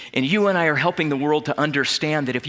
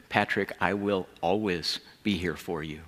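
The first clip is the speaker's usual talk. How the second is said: through tears; 6 semitones lower, 6 dB quieter than usual. Real, not acted. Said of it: "through my own tears".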